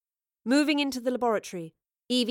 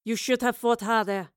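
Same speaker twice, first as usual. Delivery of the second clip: contemptuous villain's sneer; cold taunt with a sneer. A narrator's reading. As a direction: sneer at a beaten opponent. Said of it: "Lorelei sneered".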